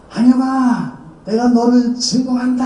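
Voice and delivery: high, eerie voice pronouncing a curse; possessed sister. Retold or imitated. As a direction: speak as if another being uses her mouth. Possessed sister cursing him.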